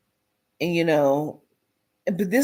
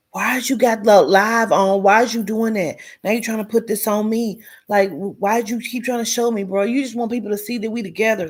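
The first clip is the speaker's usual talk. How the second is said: a touch of an accusing partner, fast and pushed; mock argument; 3 dB louder, faster than usual. Imitating the girlfriend accusing him on the live, mildly heated. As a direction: snap back at him like he set you up.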